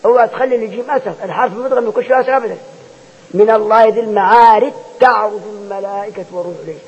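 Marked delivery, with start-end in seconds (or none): 3.3-6.8 recited من الله ذي المعارج تعرج with the جيم merged into the تاء; jim merged into ta. Shown as a demonstration. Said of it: "تبقى تاء".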